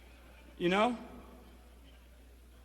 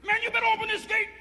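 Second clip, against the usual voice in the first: mocking guard; 14 semitones higher, faster than usual. Guard mocking inmates with gun.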